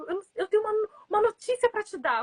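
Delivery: high and eager; blurting out good news; excited student. Retold or imitated. Student bursting to tell his teacher news, high and eager.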